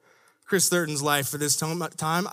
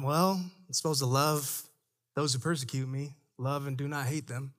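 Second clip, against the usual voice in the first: quiet inner voice; 6 semitones lower, 6 dB quieter than usual. Retold or imitated. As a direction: hush it like a private thought. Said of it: "recalling inner conviction".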